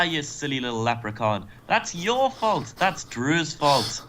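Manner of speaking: hammed-up Irish accent with swooping pitch; Finn Balor. Podcaster voicing wrestler shifting blame, hammed-up Irish accent. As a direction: put on a mock Irish accent, drawing out the accusations. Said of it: "How could I do an Irish accent?".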